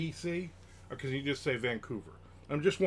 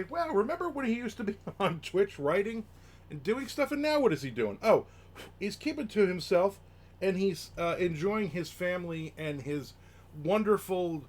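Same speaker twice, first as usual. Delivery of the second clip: higher, louder gushing mock admiration; mock admiring fan; 5 semitones higher, 3 dB louder than usual. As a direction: sing his praises like a fan. Imagined fan praising quiet life.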